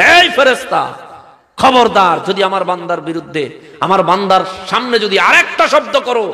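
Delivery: high, loud, stern, rebuking tone. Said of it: "ধমক দিয়ে বলবে".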